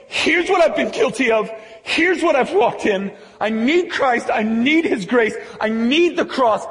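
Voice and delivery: a hint of a pleading believer, loud and high; lightly voiced confessing believer. Believers confessing sins in church.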